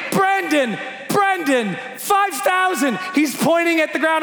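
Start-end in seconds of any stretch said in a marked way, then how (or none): 0.1-3.0 imitated screaming. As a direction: call out as if over rushing wind. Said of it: "He's screaming".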